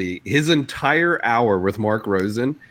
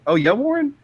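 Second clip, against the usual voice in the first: mock impressed host; 4 semitones higher, faster than usual. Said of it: "he goes, he's like".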